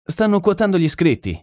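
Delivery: high-pitched exclamation; excited exclamation. A narrator's reading. Narrator notices the entrants being quoted, high-pitched exclamation. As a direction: exclaim it high, without shouting.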